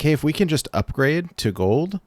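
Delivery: glitchy robotic connection voice; choppy digital robot voice from a bad connection. Real, not acted. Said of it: "Uh-oh, robot voice".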